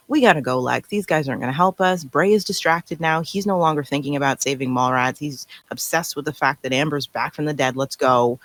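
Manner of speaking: hushed plea to leave now; quiet persuasion. Retold or imitated. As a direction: talk him into leaving, hushed. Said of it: "convince him".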